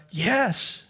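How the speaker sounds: a soft, weak yes; weak reply. Acted. Distraught man on the bridge answers weakly, softly. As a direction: barely get the word out. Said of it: "The fellow weakly replied".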